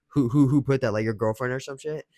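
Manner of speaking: quick, loud, pointed retold accusation; jealous girlfriend. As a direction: fire off the who's like a suspicious partner. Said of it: "but, like, she said it like".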